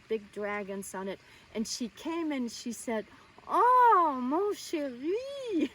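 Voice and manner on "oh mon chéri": high, drawn-out gushing cry; loud, swooping delighted welcome; effusive greeting. Retold or imitated. Acting out Jacqueline's effusive greeting.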